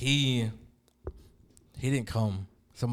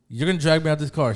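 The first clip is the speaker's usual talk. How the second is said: louder, higher disbelieving question; incredulous challenge; 6 semitones higher, 8 dB louder, faster than usual. Retold or imitated. Driver retelling his reply to a cop's threat, incredulous. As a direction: throw the threat back as a question.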